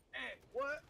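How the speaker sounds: confused off-mic aside. Retold or imitated. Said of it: "put their hand over the mic and go".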